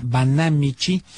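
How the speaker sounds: Banamichi said slowly, as Banámichi, stress on the first syllable. Shown as a demonstration. Radio host clarifying a town name for listeners, slow, with stress on BA. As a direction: spell out Banamichi deliberately, leaning on the BA. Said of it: "con acento en la A".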